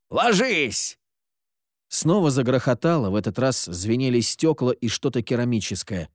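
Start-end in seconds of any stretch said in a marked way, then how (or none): 0.1-1.0 high-pitched cry of warning, volume held back; urgent warning. A narrator's reading. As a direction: call out a sudden danger. Warning amid gunfire. (тревожный выкрик)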